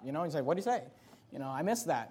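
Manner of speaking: 1 quiet. Shown as a demonstration. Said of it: "I'll just quiet down".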